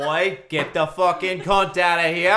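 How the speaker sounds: put-on Australian accent. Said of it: "which accent you're trying to do".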